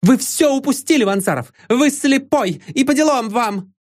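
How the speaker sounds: put-on a young woman losing control, hurling reproach; exclaiming. A narrator's reading. Irena rebukes Vanzarov for missing his chance, shrill high outburst. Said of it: "вскричала она".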